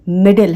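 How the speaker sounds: मिडिल as "mid-l"; light single-D मिडिल. Shown as a demonstration. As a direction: say मिडिल with one D sound. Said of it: "एक डी है वो".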